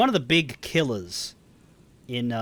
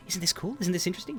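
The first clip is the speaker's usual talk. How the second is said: higher, lightly eager questions; a little excited; 5 semitones higher, 4 dB quieter, faster than usual. Shown as a demonstration. Bug enthusiast sharing his passion, a little excited. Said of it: "he's gonna be a little excited".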